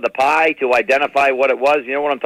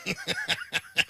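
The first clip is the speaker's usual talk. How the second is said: high laugh; 15 dB quieter than usual. Real, not acted. Laughing at Nana's name mix-up. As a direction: burst of squealing laughter.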